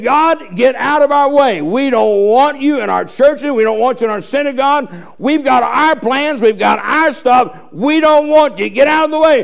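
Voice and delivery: defiant rejection. Acted. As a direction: preach it as people pushing God away. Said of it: "They said".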